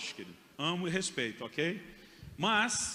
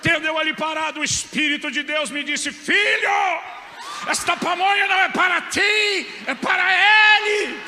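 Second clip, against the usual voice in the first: high, loud, hammed-up preaching shout; pentecostal preacher parody; 12 semitones higher, 15 dB louder than usual. Shown as a demonstration. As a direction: voice of God boomed like a revival preacher. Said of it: "a versão pentecostal".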